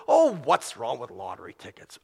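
a hint of a defensive gambler; mocking voice of gambler. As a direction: mimic the naive excuse. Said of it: "the one who starts off with this".

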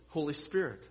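ordinary delivery

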